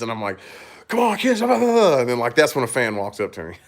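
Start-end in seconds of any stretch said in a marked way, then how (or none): 0.9-2.0 higher, imitating a nagging parent; half-hearted mock scolding of the kids; mock griping at kids. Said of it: "I was, like, griping at the kids".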